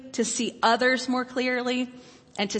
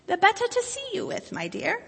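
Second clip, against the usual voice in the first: wolf voice; 11 semitones higher than usual. Acted. Wolf answers Red.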